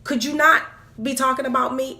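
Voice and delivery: retold griping at the pastor; exasperated confrontation. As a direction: pester him with indignant questions. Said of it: "was like".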